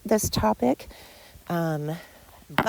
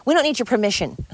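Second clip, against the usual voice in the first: fast defiant burst; 5 semitones higher, faster than usual. Real, not acted. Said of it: "I can't talk today".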